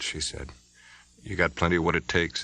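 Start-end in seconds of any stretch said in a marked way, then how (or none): 1.2-2.4 sober. Acted. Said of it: "said Spencer soberly".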